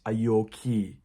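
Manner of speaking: short, Scottish-accented question. Shown as a demonstration. Teacher contrasting with RP for learners, in a Scottish accent. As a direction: say it with Scottish vowels, "okay" like "oh-kee". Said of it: "But in the Scottish accent".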